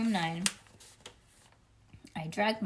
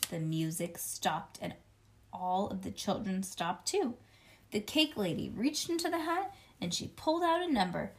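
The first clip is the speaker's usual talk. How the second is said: plain reading voice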